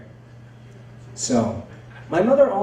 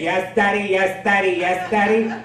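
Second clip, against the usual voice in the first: mock ecstasy; 4 semitones higher than usual. Throws mimicked bedroom cries back.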